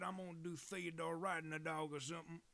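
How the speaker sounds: hammed-up cheerful declaration; playful put-on voice. Streamer hyping up chat about the drawing, mock announcer.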